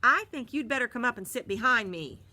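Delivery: firm order; lightly voiced stern driver. A narrator's reading. Bus driver orders Marty to the front. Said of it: "the bus driver said".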